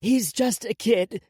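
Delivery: high, loud, slow plea; protesting aunt. A narrator's reading. Aunt defends her crying nephew, protesting.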